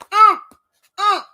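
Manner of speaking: choked grunts. Retold or imitated. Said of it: "I had you talking like that".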